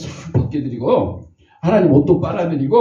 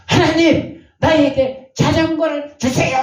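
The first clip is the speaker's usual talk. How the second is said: put-on much higher, calling out like a child; loud prayer; 11 semitones higher than usual. A child loudly asks God for a bicycle, calling out. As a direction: shout the wish up to God. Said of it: "큰 소리로".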